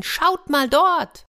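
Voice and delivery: high, drawn-out excited cry; little girl calling. A narrator's reading. Small girl alerts the crowd to the water, calling out. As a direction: call out so everyone looks. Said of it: "rief ein kleines Mädchen".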